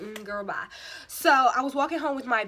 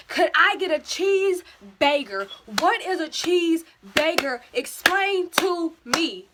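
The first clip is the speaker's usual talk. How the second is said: higher and louder, slow, baffled asking; flustered mock asking; 6 semitones higher, 5 dB louder, slower than usual. Mocking her own order at the Wendy's counter, higher and louder. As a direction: play up the confusion, pitched up.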